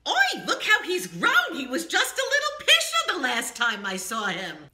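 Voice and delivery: fond astonishment; astonished. Shown as a demonstration. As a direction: marvel at the grown boy.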